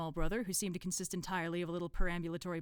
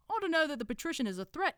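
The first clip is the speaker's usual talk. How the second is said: higher put-on accent for a dim cult member; Brother Watchtower; 10 semitones higher, 5 dB louder than usual. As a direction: interrupt helpfully in a put-on accent. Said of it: "decided to do an accent".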